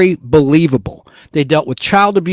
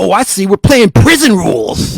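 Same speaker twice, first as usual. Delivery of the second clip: put-on lisping voice; 3 semitones higher, 3 dB louder than usual. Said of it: "And he had that lisp, Jim Carrey's character".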